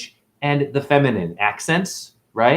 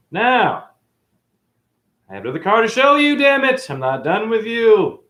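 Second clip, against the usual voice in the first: worked up; 10 semitones higher than usual. Real, not acted. Worked up, rushing another car.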